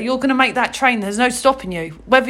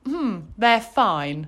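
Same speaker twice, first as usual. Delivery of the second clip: slow, soft, noncommittal "Hmm, they're fine"; mimicking a flat, indifferent friend; unimpressed "fine"; 4 semitones lower, 5 dB quieter, much slower than usual. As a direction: drag out a lukewarm verdict. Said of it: "You just went".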